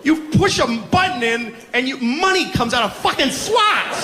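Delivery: a cranky, whiny God complaining; high squeaky voice griping at the cash machine; God at the ATM. Retold or imitated. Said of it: "probably just God standing at the A T M".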